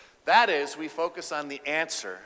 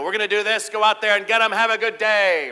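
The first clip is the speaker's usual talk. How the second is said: louder, higher rallying command; coach-like boss; 6 semitones higher, 9 dB louder than usual. Retold or imitated. Male doctor running quick huddle, rallying command. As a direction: fire up the team and send them off.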